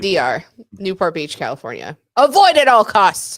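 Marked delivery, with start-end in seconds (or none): 2.2-3.4 very loud, emphatic shouting. Reading a one-star review aloud that is written in caps: shouting all-caps text. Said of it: "I had to say it like that. It's all in caps".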